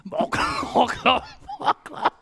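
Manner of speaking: high, loud eerie pumpkin calls; creepy pumpkin calling. Acted. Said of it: "it sounds creepy".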